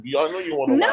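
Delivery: mocking high voice. Mocking quote to Belinda.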